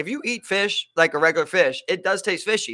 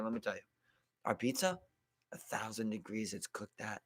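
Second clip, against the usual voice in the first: put-on low, soft Italian-accented pitch about the pizza; lightly imitated Italian waiter, unhurried and proud; 7 semitones lower, 11 dB quieter than usual. Waiter bragging about the oven to diners, soft Italian accent. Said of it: "all in, like, an Italian accent".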